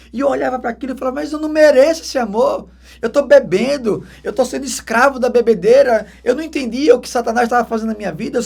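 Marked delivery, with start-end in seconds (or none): 1.2-6.1 retold anguished cry. His own retold guilty outburst.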